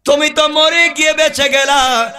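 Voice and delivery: crying out. Acted. Youth calling to the dead Kutubuddin, high chanted cry. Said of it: "চিৎকার করে ডাক দিয়া বলছে".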